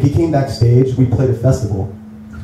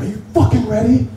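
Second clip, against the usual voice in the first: pumped-up rally cry; 12 semitones higher than usual. Retold or imitated. Band pre-show ritual shout.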